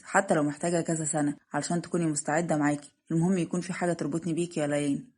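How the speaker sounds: lightly voiced reassuring fiancé, kept low; devoted suitor. Narrator voices Yamen proposing. (خطيب حنون بصوت منخفض)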